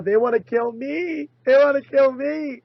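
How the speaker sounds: imitating Alex Jones crying persecution; Alex Jones impression. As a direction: rise into a hammed-up paranoid wail. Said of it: "Alex Jones is subtly playing up".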